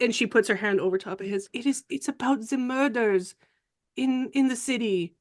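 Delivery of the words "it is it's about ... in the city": lightly voiced, higher French lady; hesitant reveal with a hint of French; confiding Frenchwoman. French character confides about murders.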